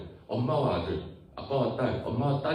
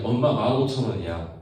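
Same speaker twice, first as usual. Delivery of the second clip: lightly acted child, louder; child asking mother for money; 8 dB louder than usual. Kid fibbing to mom about book price, lightly acted loud child. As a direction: call to mom for money, voice raised. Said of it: "뭐라고 얘기해?".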